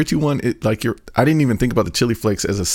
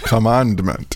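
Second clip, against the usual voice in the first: "commandment" echoed through a laugh; much slower than usual. Retold or imitated. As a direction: tease the odd "commandment", laughing. Co-host laughingly echoes odd pronunciation.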